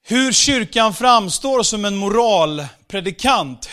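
usual speaking voice

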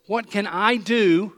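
slow, leaning on "I" in "What can I do"; stress on I. Shown as a demonstration. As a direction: draw out the question, weight on "I". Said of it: "The emphasis is".

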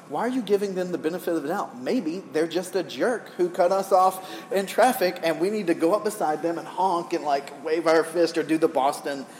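retold road-rage grumbling, mildly worked up; mock indignation. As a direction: argue back in playful exasperation. Retold argument with mom in traffic.

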